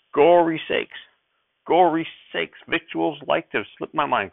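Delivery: put-on high, hurried old-timer exclaiming; old prospector, quick. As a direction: blurt it out like a flustered grandpa. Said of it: "Grandfather said quickly".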